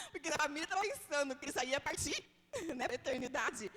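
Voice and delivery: words broken by laughter; laughing while telling. Real, not acted. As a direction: laugh through the line. Laughing at the family's fear.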